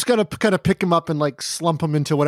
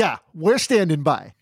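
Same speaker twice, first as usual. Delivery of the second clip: slow, menacing echo; threatening backup. Acted. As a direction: drag it out slowly as a veiled threat. Ape echoes line as backup threat.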